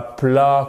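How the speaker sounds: plat with open French A; French vowel. Shown as a demonstration. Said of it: "comme en français".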